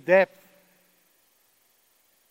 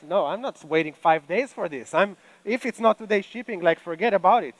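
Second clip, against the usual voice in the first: louder, indignant online shopper; impatient refusal; 4 semitones higher, 6 dB louder than usual. Acted. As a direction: refuse the wait impatiently, with force.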